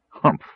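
a short scornful humph; dismissive snort. Acted. Dwarf scoffing at the charge, snorting. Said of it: "The dwarf snorted".

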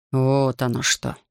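slow, drawn-out musing; the host muses slowly over the news; thoughtful drawl. Acted. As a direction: stretch the words out, thinking. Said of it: "задумчиво протянул Рихард".

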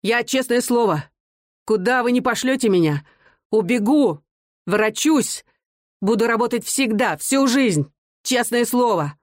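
выше, взволнованно, но не громко; клянись изо всех сил; горячий выкрик. A narrator's reading. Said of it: "он крикнул". (Мазин горячо клянётся суду)

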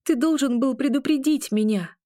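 high, loud accusing shout. A narrator's reading. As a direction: shout the blame at him. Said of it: "выкрикнула я".

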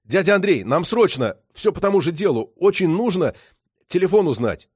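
loud, high, urgent appeal; pressing near-shout; almost shouting. A narrator's reading. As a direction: plead urgently down the phone. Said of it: "почти закричал".

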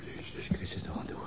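breathy whispered oath under the breath; whispered curse. Acted. Alone at his desk, the detective curses in a whisper. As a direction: mutter it to yourself in a whisper.

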